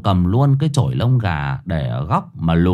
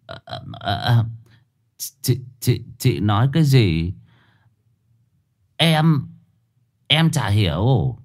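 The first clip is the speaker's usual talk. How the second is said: stubborn stammering denial. A narrator's reading. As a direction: play dumb and stall. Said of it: "vẫn còn cãi cùn".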